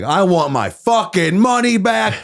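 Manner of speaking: retold fury, hammed up and high; irate rant. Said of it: "I am irate".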